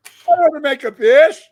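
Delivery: repeated loud with a rise on I; defiant repeat. Real, not acted. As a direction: hammer it home again.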